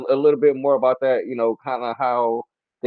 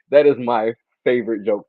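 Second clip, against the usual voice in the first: ordinary delivery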